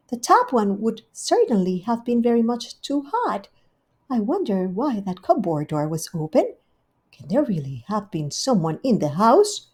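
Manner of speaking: a prim hostess pleased with herself; Rivy's voice. Acted. Rivy talking to herself at home, lightly voiced.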